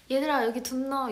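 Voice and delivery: casual Chungcheong dialect call. Retold or imitated. To resting staff, light Chungcheong dialect call. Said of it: "제가 애들한테".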